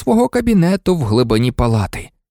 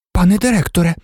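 high-pitched, affronted nurse; raised pitch, scandalised protest; indignant; 7 semitones higher, much faster than usual. A narrator's reading. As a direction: object to the headmaster in outrage. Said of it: "обурилася мадам Помфрі".

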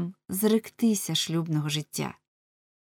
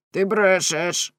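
loud, drawn-out accusation; crying out; 6 dB louder, much slower than usual. A narrator's reading. Husband accusing his wife of lying, crying out. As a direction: cry it out slowly and forcefully. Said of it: "крикнув Ламе".

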